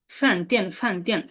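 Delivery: ফ্যান টিয়ান with the pitch falling on each syllable. Shown as a demonstration. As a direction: say ফ্যান টিয়ান dropping sharply downward. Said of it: "শব্দটা falling হয়ে যাবে". (ফ্যান টিয়ান নিচের দিকে নামানো টোনে)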